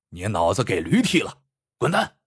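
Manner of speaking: a mild, understated curse at him; cursing. Acted. Bandit curses Lu Dui after kicking him over, mildly angry. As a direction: curse him off without much heat. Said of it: "骂道".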